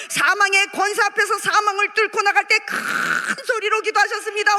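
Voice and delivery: preacher dwelling hard on 큰. Real, not acted. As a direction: build up to a very long 큰. Stresses how loudly Jesus prayed.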